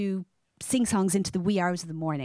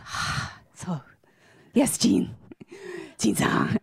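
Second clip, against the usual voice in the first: imitated whisper; 2 semitones higher, much slower than usual. Shy colleague answering her in the meeting, whispered. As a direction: hush it like a shy secret.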